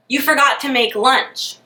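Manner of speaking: forgot lifted, rising at the end; slightly put-out reminder; quoting his exact words. Retold or imitated. Boyfriend hinting she should pack his lunch, rising at the end. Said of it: "And he didn't say".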